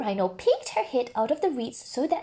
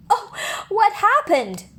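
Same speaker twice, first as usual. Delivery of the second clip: surprised; 10 semitones higher, 4 dB louder than usual. A narrator's reading. Narrator exclaims in suspense.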